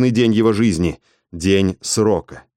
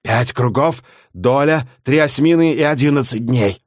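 croaking seer; 3 semitones higher than usual. Acted. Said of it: "каркнула видящая".

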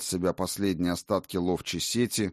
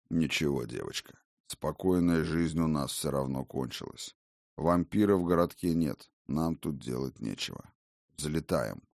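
gentle father; 4 semitones lower, 3 dB quieter than usual. Acted. Father comforts then decides.

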